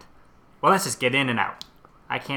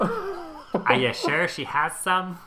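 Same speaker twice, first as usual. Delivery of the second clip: put-on old lady voice; 6 semitones higher, much slower than usual. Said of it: "Matt, do that one again".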